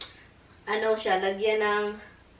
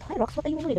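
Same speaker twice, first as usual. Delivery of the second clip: cutesy high voice; 7 semitones higher, faster than usual. Acted. Talking to a pet in baby voice.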